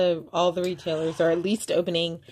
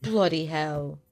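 mock British accent; 2 semitones lower, 3 dB quieter, slower than usual. Shown as a demonstration. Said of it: "three things in a British accent".

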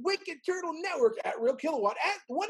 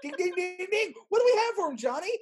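game show host; 4 semitones higher, faster than usual. Pretend.

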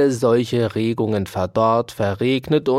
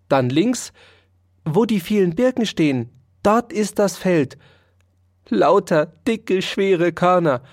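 mouse giving directions; 5 semitones higher than usual. Acted.

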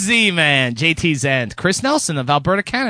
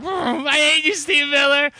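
mock hatred; 9 semitones higher, slower than usual. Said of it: "laughs; Stupid Steve Miller".

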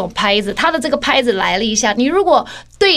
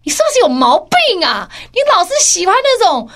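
higher lightly voiced scolding mother; higher mild imitation of a scolding mother; scolding mom; 5 semitones higher than usual. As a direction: nag like an exasperated mom. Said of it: "我妈就说".

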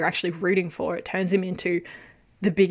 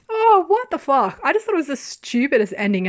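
real incredulous outburst, pitched way up; laughing exasperation; 7 semitones higher, 5 dB louder than usual. Real, not acted. Exasperated at the absurd ending.

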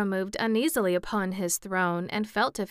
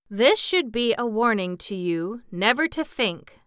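mildly stern, louder rebuke; severe; 4 semitones higher, 6 dB louder than usual. A narrator's reading. Scarecrow warning Jack never to think, mildly severe. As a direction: scold firmly, a little higher and louder. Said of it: "returned the Scarecrow severely".

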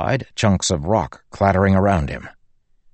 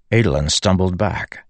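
ordinary delivery, nothing marked

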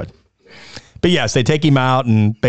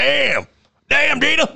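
high-pitched mock astonishment; mock shocked reaction; 12 semitones higher than usual. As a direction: imitate a stunned moviegoer, pitched high. Voices shocked moviegoers' reaction.

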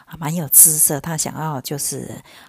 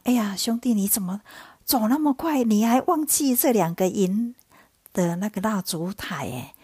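higher-pitched, acted friendly chiding; exclaiming reproach; 4 semitones higher than usual. Priest covering for his guest before police, exclaiming reproach. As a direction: call out in mock surprise at his forgetfulness.

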